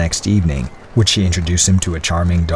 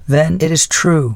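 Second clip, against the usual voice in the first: grave; 8 semitones higher than usual. Acted. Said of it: "she said gravely".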